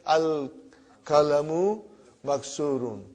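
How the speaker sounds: Al-kalamu slowly with a long rising end; slow repeat. Shown as a demonstration. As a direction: say it again slowly for translation. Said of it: "Say it loudly".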